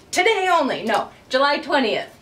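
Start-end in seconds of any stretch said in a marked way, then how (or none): 0.1-0.8 jokey high sales pitch, laughing; infomercial voice. Pretend. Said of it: "now I sound like an infomercial".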